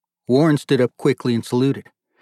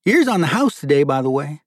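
high, loud hospitable offer; generous host, pitched up; hospitable father; 4 semitones higher, 4 dB louder than usual. Acted. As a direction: announce the treat in a high, raised voice. Father offers a free meal.

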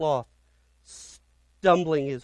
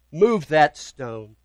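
commanding order; 5 dB louder, much slower than usual. Acted. Jesus orders the crowd.

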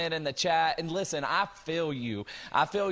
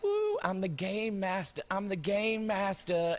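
put-on excited kid; 5 semitones higher than usual. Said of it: "this kid's like".

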